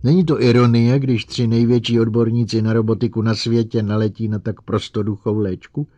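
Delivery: forceful, agitated mockery; bitter outburst. A narrator's reading. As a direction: throw it at them, nearly hysterical. Bitter hysterical outburst at duped colleagues.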